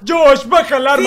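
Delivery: desperate plea. Acted. Pleading at gunpoint.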